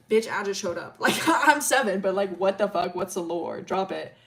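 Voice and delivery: blurting it out through laughter; half-laughing sassy comeback; laughing retort. Retold or imitated. Arden snapping at Milo's dad, laughing.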